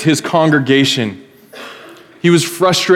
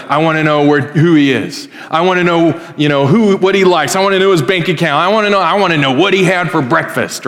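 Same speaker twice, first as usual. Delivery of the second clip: greedy demanding king; 3 semitones higher than usual. Retold or imitated. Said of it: "He's like".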